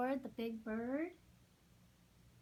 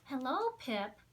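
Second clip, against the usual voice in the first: gushing. Acted. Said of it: "Mary gushed".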